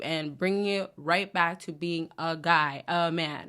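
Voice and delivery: low and slow, settling downward. Shown as a demonstration. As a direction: drop it down, taking your time. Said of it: "more deep".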